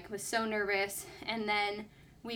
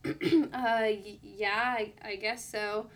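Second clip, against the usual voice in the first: nervous hesitation; slower than usual. Retold or imitated. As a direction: stammer a mildly nervous, reluctant admission. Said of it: "I just got so nervous".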